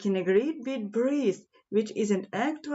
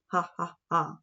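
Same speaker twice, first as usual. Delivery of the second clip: lower, spoken mock laugh; mocking laughter; 3 semitones lower than usual. Giraffes laughing at the little mouse, low mock laugh. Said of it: "all the giraffes fell about laughing".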